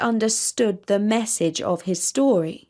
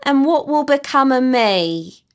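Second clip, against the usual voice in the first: put-on higher, louder plaintive old tortoise; a worried old creature asking; lightly voiced fretful old tortoise; 4 semitones higher, 5 dB louder than usual. A narrator's reading. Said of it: "asked the tortoise".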